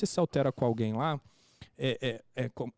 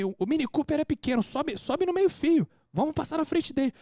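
much higher, agitated retold rant; worked-up cursing; 11 semitones higher than usual. Husband urging his wife past the line-cutter, agitated and cursing. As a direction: re-enact an indignant outburst at a queue-jumper. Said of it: "Comecei a xingar alto pra caramba".

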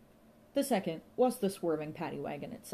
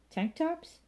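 "Tank tops?" with a much higher rising tune on "tops"; puzzled question; 11 semitones higher than usual. A narrator's reading. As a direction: lift "tops" sharply in disbelief.

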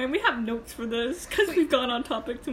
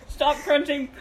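laughing; 4 dB louder than usual. Real, not acted. Laughing imitation of friend.

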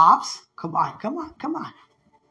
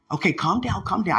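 lower, restrained self-talk; calming oneself; 3 semitones lower than usual. Retold or imitated. Speaker reining in excitement, calming oneself. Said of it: "I gotta calm down".

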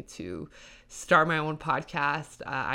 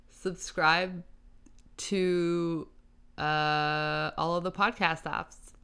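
a light Southern drawl on Subscribe; Southern accent; 2 semitones higher, slower than usual. Shown as a demonstration. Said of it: "A Southern accent".

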